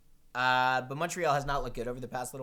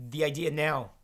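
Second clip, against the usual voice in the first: voice crack; 3 dB louder than usual. Real, not acted. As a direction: voice cracking mid-phrase. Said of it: "Voice crack".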